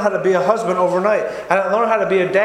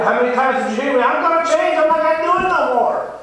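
put-on high, pleading voice of his old self swearing to change; mock earnest vow to quit; pleading promise; 7 semitones higher than usual. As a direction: beg like a man who's promised it too many times. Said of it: "I get".

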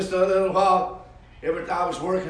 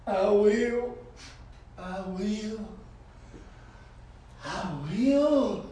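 building fervour; 3 semitones higher, 7 dB louder, much slower than usual. Retold or imitated. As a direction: let each I will grow until it bursts out. Niece repents, growing fervent.

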